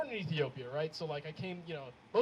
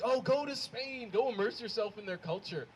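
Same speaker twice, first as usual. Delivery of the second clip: imitated breezy advice; 5 semitones higher than usual. Mimicking people giving breezy travel advice.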